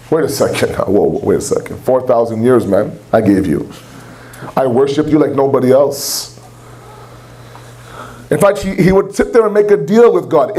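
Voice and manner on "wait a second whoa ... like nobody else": low, aggrieved devil's voice, breathy whisper at "wait a second"; a dark, hushed Shaitan objecting to God; Shaitan protesting. Acted. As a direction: drop low and plead like a wronged Shaitan.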